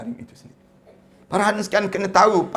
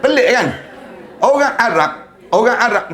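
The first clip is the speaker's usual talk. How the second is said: louder, higher burst of wonder; amazed exclaim; 3 semitones higher, 4 dB louder than usual. Real, not acted. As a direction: call it out in disbelief. Marvels at the Arab imam. (berseru kagum, lebih kuat)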